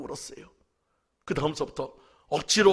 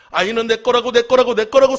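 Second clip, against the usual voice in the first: put-on child screaming his claim, high and loud; retold child screaming; 8 semitones higher, 16 dB louder than usual. Pastor retelling his son's screams in the store, a high loud shriek. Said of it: "소리 지르는 거".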